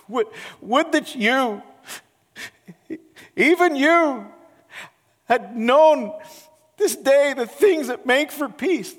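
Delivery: high, strained mock crying through the words; imitated weeping. Shown as a demonstration. Jesus weeping over the city, talking through tears, acted sobbing. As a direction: force it out as if sobbing, breaking between phrases. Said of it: "What does he sound like? Sounds like".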